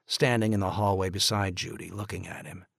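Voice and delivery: usual speaking voice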